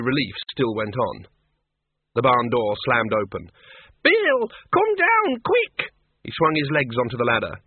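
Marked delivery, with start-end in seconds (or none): 4.0-5.9 high and loud, urgent cry; frantic woman calling. Acted. Miss Flitworth shouts up to Bill in the barn, frantic. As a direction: call him down in a panic.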